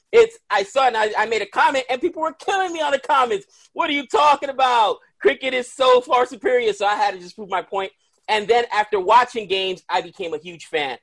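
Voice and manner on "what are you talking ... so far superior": mock angry commenter. Gabe voicing commenters who mocked him, mock shout. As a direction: fire it back like an indignant cricket fan.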